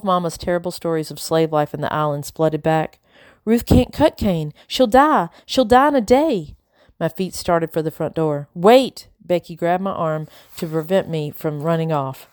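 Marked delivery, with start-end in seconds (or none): 3.4-6.6 distraught. A narrator's reading. Isabel fearing Ruth will die cutting cane, distraught. Isabel terrified for her sister. 8.5-9.1 high, loud exclamation; urgent call. A narrator's reading. Becky stopping Isabel at the door, urgent.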